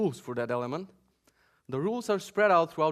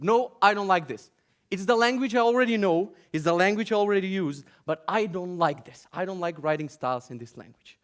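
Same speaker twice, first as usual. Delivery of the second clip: whiny complaint; 4 dB louder than usual. Retold or imitated. Mocking a developer's complaint.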